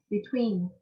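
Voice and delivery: "Between" with TWEEN prominent; stress on second syllable. Shown as a demonstration. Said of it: "two, between".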